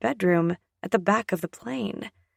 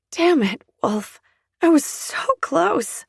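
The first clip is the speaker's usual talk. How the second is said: higher, louder frustrated pout; 7 semitones higher, 3 dB louder than usual. A narrator's reading. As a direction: sulk like you've been robbed. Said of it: "sound like I'm pouting".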